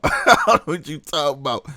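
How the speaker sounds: mock innocence, laughing; laughing through the line. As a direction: brush it off while cracking up. Dodging interview question, laughing.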